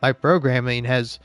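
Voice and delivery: faint robot musing on life. Acted. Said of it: "when you do a robot voice bit".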